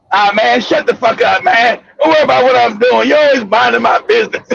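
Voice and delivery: low, irritated brush-off; grumpy, low mind-your-business retort; dismissive brother. Acted.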